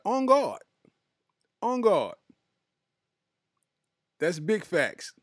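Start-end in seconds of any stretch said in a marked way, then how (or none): 0.0-2.2 loud, higher hype call; hyped exclamation. Real, not acted. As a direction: shout it like a rallying cry.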